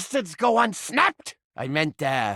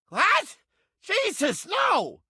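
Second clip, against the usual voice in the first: startled disgust; 6 semitones higher, much slower than usual. Acted. Disgusted by the rat.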